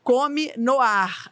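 slow, drawn-out insistent command; imitated boss's order. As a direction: press the order word by word, imitating the boss. Boss ordering through the earpiece.

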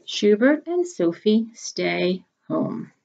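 slow, careful title reading. A narrator's reading. Teacher slowly announcing the story title.

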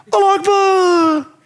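drawn-out, laughing Allah Akbar; slow mock jihadi shout; slow battle cry. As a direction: stretch the cry out slowly.

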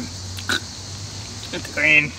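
very slow whispered words; drawn-out whisper. Pretend. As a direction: stretch it out in a whisper. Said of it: "repeats it drawn out".

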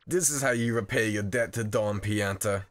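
lightly voiced Don in a put-on accent; disappointed mafia boss. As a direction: reproach someone you treated as a son. Boss scolds Frankie as betrayer.

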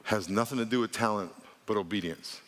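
"talent" set down evenly, "but obedience" dropped low after it; measured line, with "obedience" landing low; deliberate emphatic repetition. Real, not acted. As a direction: repeat it solemnly, lowering "but obedience". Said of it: "say it three times, then I'm gonna pause for emphasis".

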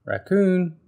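high, loud calling out; little bird hailing a friend; eager Bird. Acted. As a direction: call the friend hopefully. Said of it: "said Bird".

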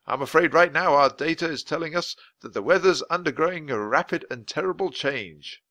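a hint of a grave official; lightly voiced weather man, worried. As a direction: warn them gently but seriously. Voice of Mister Perkins.

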